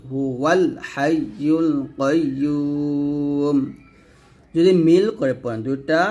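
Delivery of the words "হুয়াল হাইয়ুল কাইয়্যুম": হুয়াল as "huwal", leaning into the l; joined lam. Shown as a demonstration. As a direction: link হুয়াল to হাইয়ুল, then hold কাইয়্যুম. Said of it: "ওয়াওকে লামকে ধরবে". (হুয়াল-এর লাম ধরে মিলিয়ে পড়া)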